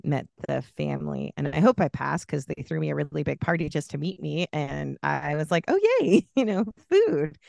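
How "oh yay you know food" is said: mock excitement. Mock excited reaction to party.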